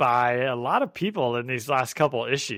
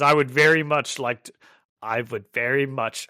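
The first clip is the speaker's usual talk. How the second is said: put-on failed Russian accent. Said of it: "I can't do a Russian accent".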